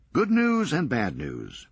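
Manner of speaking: brisk, sardonic comeback; wry Serge. Acted. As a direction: toss it off dryly, quick.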